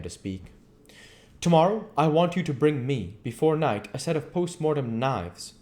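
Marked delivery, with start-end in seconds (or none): 1.4-5.5 the professor, grave and insistent; a mentor giving firm instructions; earnest professor voice. Acted.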